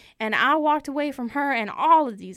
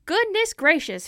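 shocked; 6 semitones higher than usual. Retold or imitated. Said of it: "And I thought".

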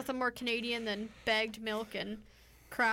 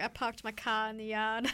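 weak attempt at a Boston accent; half-hearted Boston accent, dropping the r's; lightly voiced Boston accent. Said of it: "I can't do a good Boston accent".

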